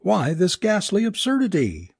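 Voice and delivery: high-pitched, distraught tirade; raving. A narrator's reading. Alice protests being picked for a cosmic joke, raving. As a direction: wail in outrage at the injustice. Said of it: "Alice raved".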